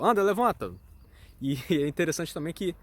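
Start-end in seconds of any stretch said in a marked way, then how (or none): 0.0-0.7 imitação de mãe, mais alta e aguda; a mother's order, louder and pitched up; mãe mandando levantar. Retold or imitated. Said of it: "a mãe fala". (mãe dando ordem ao filho)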